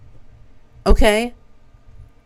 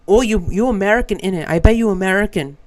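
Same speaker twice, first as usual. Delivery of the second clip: lightly imitated British accent, accusing; rough, half-replicated British accent. English man accuses an American stranger, imitated British accent. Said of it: "He said it in a very British accent".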